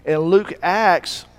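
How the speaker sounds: Luke Acts stretched out in a Savannah drawl; slow Savannah drawl. Shown as a demonstration. Preacher showing the Savannah drawl, slow and drawn out. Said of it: "draw out what they're saying".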